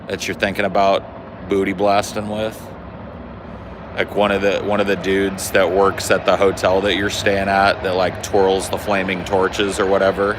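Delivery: loud, shouting over the noise. Real, not acted. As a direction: yell over a passing train. Yelling over the train noise.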